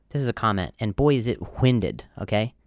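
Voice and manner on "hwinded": "winded" with a hard, blown H at the start. Shown as a demonstration. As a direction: stress the breathy "hw" opening of "winded". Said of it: "Hard H".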